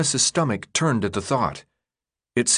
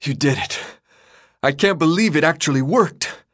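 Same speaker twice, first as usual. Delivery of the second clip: slightly higher, lightly voiced battered fighter; Minho's voice; 5 semitones higher than usual. A narrator's reading. Minho tells Thomas how many died, voiced lightly and grim. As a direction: report the losses grim and winded.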